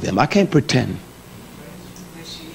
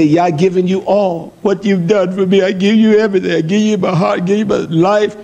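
mock pious vow; 3 semitones higher than usual. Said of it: "that's what we say".

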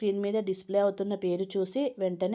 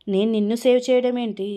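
louder, baffled question; puzzled surprise; 3 semitones higher, 8 dB louder than usual. A narrator's reading. Friend on the phone baffled by the thanks, loud surprise. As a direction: toss it back in loud disbelief.

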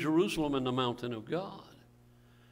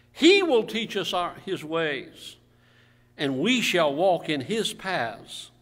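scripture reading aloud; 3 semitones higher, 4 dB louder than usual. Real, not acted. Reads scripture to congregation.

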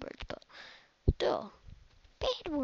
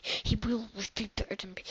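whisper; 9 dB quieter than usual. Acted. Whispered concession.

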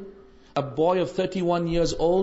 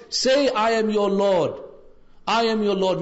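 devil's demand; 3 semitones higher, 3 dB louder than usual. Acted. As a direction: insist like a tempter, louder. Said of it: "then he said again".

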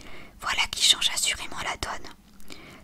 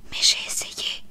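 a whispered whine, pitched higher; whimpering plea; 6 dB louder than usual. Acted. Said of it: "gémit Sophie". (gémissement chuchoté, plus aigu)

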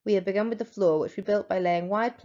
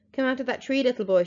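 rasping witch voice; 4 semitones higher, 3 dB louder than usual. Acted. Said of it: "Her voice had a curious, rasping quality".

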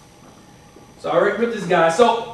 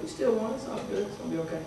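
self-reassurance; 10 dB quieter, faster than usual. Retold or imitated. Retold self-reassurance after the mistake.

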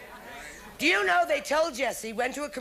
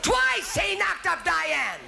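roep het de zaal in met toenemende opwinding; excited; 8 semitones higher than usual. Retold or imitated. Retelling soap plot to crowd.

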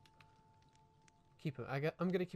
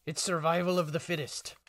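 big booming declaration, higher and louder; dramatic announcer; 7 semitones higher, 13 dB louder than usual. Acted. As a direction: announce it like a trailer. Dramatic intro line.

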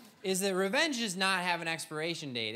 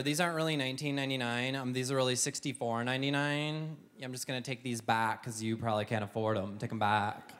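lower, condescending clerk put-down; snarky shop girl; 5 semitones lower than usual. Retold or imitated. Snarky clerk to a customer at the counter, lightly mocking. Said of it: "this little snarky girl".

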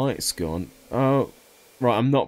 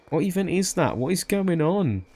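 baffled; 8 semitones higher than usual. Real, not acted. Baffled by strange creature.

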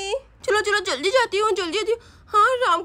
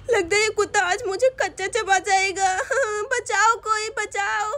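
tearful pleading, a touch of laughter; hurt and tearful. Acted. Siya telling her sister her leg hurts, tearful. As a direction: whimper for help after the bite. Bitten leg, whimpering for help.

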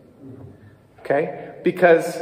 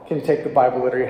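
"take" hit hardest, the rest rushed fast; stress on take; 4 semitones lower, much faster than usual. Shown as a demonstration. A teacher demonstrating the emphasis, stress on take. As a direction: rattle it off fast and punch "take". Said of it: "emphasize different things".

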